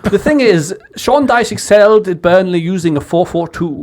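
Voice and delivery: a hint of posh English, fast; posh English accent. Friends egging him into his posh English voice. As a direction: clip it like a posh pundit. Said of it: "Do your posh English one".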